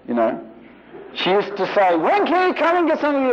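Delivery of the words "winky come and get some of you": high, sing-out mother calling; mother's first-level call. Retold or imitated. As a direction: call a child in to eat, imitating mother. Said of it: "three levels of voice".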